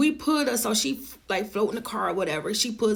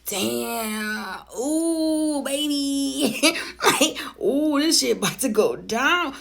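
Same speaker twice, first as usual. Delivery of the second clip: gleeful laugh; 2 semitones higher, much slower than usual. Retold or imitated. Relishing the coming drama.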